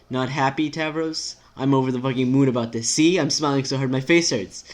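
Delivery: emphatic, lightly voiced sarcasm; sarcastic character. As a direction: insist on being thrilled, without meaning it. Acts sarcastically glad character.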